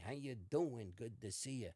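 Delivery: lightly voiced wise-guy boxing manager; a hint of a boxing manager character; imitated boxing manager. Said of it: "he talks like this, literally".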